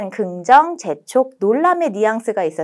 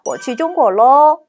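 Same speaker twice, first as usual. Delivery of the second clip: bright, bouncy, louder and slow; cheerful tone; 5 semitones higher, 6 dB louder, much slower than usual. Shown as a demonstration. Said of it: "명랑명랑한 말투죠". (명랑명랑한 말투로)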